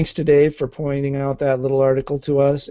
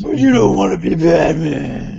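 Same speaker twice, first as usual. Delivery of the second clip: flat mechanical robot voice; 3 semitones higher than usual. Pretend. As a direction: talk like a cold machine. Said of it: "you sound like Ultron".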